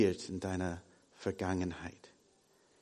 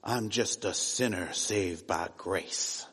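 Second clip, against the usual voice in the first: mock pious American English; American churchgoer; 4 semitones lower than usual. Preacher mimicking American churchgoers, in a mild pious American accent. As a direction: imitate a churchy American saying it. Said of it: "hat die Leute immer gesagt".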